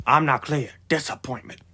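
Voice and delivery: nasal, stuffed-up runny-nose voice. Real, not acted. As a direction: talk through a runny nose. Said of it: "I'm sorry if I sound quite nasally".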